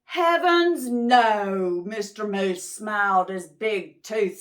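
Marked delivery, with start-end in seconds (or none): 0.0-1.8 surprised. Acted. Mister Moose reassures.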